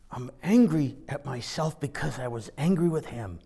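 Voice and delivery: hushed confession, almost no voice; embarrassed breathy whisper to the stranger behind. Retold or imitated. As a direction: whisper it so nobody overhears. Caught being watched, confessing.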